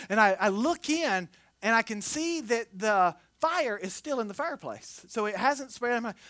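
usual speaking voice

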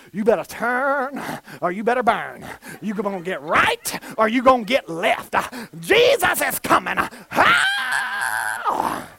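mock hellfire preacher rising to a shout; fire and brimstone. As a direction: ham up the young zealot's warning. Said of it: "I was fire and brimstone".

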